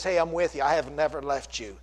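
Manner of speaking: gently reassuring, voice dropped after the preaching; still small voice. Acted. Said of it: "speaks to us in that still small voice".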